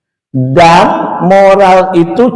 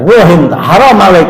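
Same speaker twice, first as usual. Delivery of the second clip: angry Arab seller; 3 dB louder than usual. Retold or imitated. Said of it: "Wah, marah dia".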